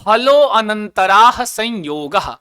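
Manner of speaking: slow, drawn-out recitation of the sutra. Shown as a demonstration. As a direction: stretch the long syllables for learners to repeat. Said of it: "बोलते हैं". (धीरे, खींचकर सूत्र-पाठ)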